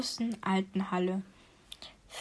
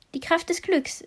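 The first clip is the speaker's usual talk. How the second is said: smiling; 7 semitones higher than usual. A narrator's reading. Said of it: "sagte der Rotfuchs und lächelte".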